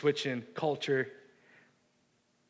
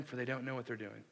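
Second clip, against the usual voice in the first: gentle forgiveness; 3 semitones lower, 8 dB quieter than usual. Retold or imitated. Jesus forgiving, retold by preacher.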